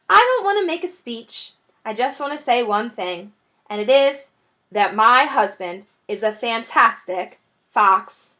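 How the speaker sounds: a hint of a shy wife; shy speech. Missus Fox praising her husband, shyly. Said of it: "got shyly to her feet".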